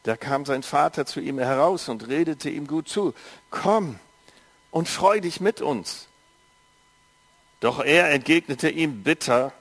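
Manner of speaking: measured storytelling read to a congregation; story narration for a church audience; Bible reading. A narrator's reading. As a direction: read the parable evenly, like scripture. Reads Bible story aloud.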